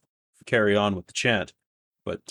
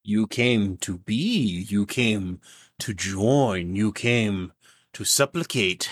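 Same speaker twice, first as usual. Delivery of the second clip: put-on sinister old man; slower than usual. GM continues old man's voice.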